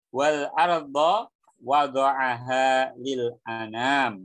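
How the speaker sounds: slow, measured verse recitation; Quran recitation. Shown as a demonstration. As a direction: recite the Arabic with drawn-out syllables.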